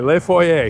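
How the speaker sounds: Le Foyer with a French "fwa-yay" ending; practised French pronunciation. Shown as a demonstration. Host practises to get the name right, French pronunciation. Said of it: "I gotta get that right".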